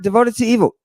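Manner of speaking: mock disbelief. Shown as a demonstration. Lecturer questions the definition, "Devoted to evil" in quick disbelief. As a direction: toss back "Devoted to evil" as a brisk double take.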